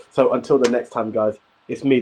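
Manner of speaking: normal talking voice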